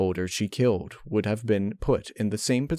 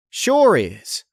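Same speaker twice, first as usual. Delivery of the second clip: character voice; 10 semitones higher, 8 dB louder than usual. A narrator's reading. Applejack voiced, lying.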